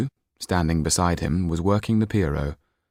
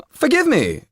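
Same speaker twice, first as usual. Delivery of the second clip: higher, louder, sly provocation; Louis de Jonquière; 6 dB louder than usual. Acted. Louis de Jonquière provoking the Pierrot, higher and louder. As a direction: needle the room with a loaded question.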